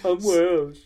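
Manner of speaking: high, loud fake Welsh; hammed-up, hopeless Welsh accent; bad Welsh accent. Host proves the accent to laughing co-host, bad Welsh. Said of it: "in my Welsh accent".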